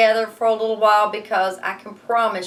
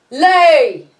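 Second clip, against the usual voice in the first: louder barked command, a bit higher; giant's command; 7 semitones higher, 11 dB louder than usual. Acted. Teacher voicing the giant ordering the hen, loud. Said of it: "every time he roared".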